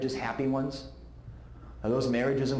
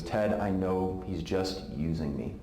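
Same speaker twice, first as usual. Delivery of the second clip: slow, lower, mild mock sob; a touch of tearful despair; bawling; 6 semitones lower, slower than usual. Friend crying to Ted on the phone, mild tearful. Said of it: "now she starts bawling".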